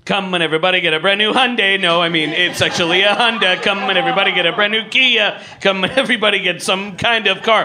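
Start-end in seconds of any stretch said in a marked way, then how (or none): 0.0-1.8 lightly voiced fast car-commercial pitch; a singer's ad. A hint of a singer selling her own cars. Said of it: "So this is a singer". 3.6-7.6 lightly voiced fast car-commercial pitch; a singer's ad. A hint of a singer selling her own cars. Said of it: "So this is a singer".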